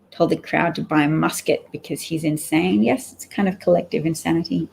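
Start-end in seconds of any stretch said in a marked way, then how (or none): 2.8-4.7 talking through a yawn; sleepy yawn mid-sentence. Real, not acted. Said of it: "My yawning is making you want to take a nap".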